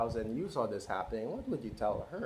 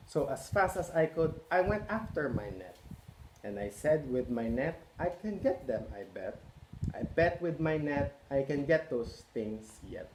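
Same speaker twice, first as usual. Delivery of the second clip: lively picture-book read-aloud; reading to children; 3 semitones higher than usual. A narrator's reading. Parent reading Cat in the Hat to children, lively. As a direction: read it out to a roomful of kids.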